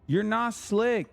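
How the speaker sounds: slow, high taunt. Acted. Streamer teasing chat again, slow and high. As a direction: stretch it out to tease.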